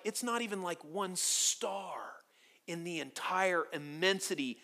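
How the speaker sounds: whispered, hushed; awed whisper. Real, not acted. Pastor marvels at God's knowledge, whispered. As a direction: breathe it in awe.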